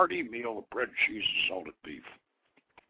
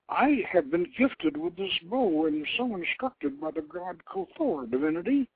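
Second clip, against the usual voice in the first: respectful; 7 semitones higher than usual. Acted. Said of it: "with a respectful lowering of his head".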